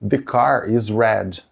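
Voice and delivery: slow, deliberate English; slow example read. Shown as a demonstration. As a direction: pace it for learners. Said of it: "eu também vou usar". (devagar, didático)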